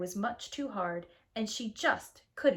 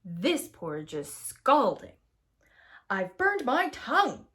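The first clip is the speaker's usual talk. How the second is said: crying out; 5 dB louder than usual. Acted. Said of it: "cried big old Papa Bear".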